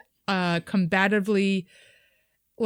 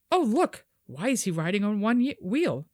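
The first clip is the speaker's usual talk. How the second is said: mother to son. Retold or imitated. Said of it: "Mother to a son".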